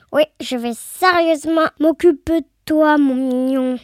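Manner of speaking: lightly voiced grumbling, boastful witch; rising from muttered insults to loud self-praise; indignant witch. Witch fuming about the boy who flushed her away, indignant.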